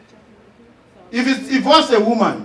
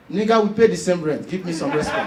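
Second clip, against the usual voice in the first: low-pitched comic retort to a neighbour; lower, softening demand for respect; understated retort; 5 semitones lower than usual. Acted. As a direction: put a snob in place, voice dropping. Tenant answers snobbish neighbours, first take.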